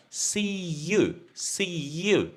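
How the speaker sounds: "See you" with a gliding "ya" linking, not a J; "See you" with a y sound. Shown as a demonstration. Teacher modelling "See you" for students.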